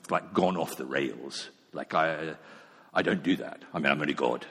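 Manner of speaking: a God who can't be bothered; dismissive mock God. Imagined dismissive God, mocking.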